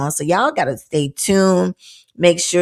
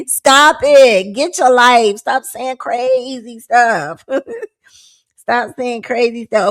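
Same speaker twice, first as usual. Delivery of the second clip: mock scolding; 6 semitones higher, 4 dB louder, much slower than usual. Scolding people in the streets.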